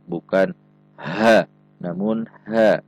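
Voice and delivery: "ha" first plain, then breathy from the throat; wrong then right ha. Shown as a demonstration. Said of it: "perhatikan sifat dan makhraj huruf ha". ("ha" yang salah lalu "ha" dari tenggorokan)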